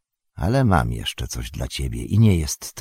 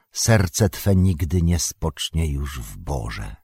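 a measured, ceremonial poem reading; solemn recited verse. A narrator's reading. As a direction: recite it slowly like an ancient prophecy. Recited verse message to Legolas.

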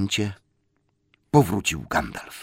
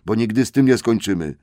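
higher, louder scolding troll; grumbling troll; 6 semitones higher, 8 dB louder than usual. Acted. Trolls scold Tom to go fetch water. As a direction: scold him and send him off.

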